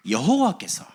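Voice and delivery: high, emphatic preacher's cry of 여호와께서; 설교하듯 힘있게; preaching. Acted. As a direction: proclaim it to the congregation. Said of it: "preaching climax".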